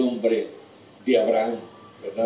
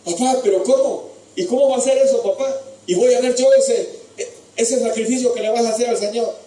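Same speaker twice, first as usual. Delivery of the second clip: anguished pleading son; 12 semitones higher, 4 dB louder than usual. Acted. Isaac pleads with father.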